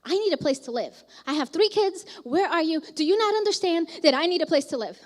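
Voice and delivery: retold freak-out, pressing harder as it goes. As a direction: demand answers, mildly frantic, reenacting a past outburst. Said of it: "Like, I'm freaking out".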